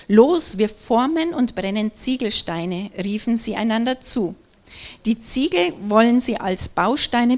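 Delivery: measured Bible reading voice; scripture reading. Acted. Pastor reading the Babel story aloud to the congregation, measured. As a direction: read the passage to the congregation, steady and clear.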